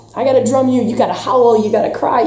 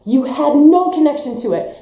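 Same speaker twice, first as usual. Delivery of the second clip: normal talking voice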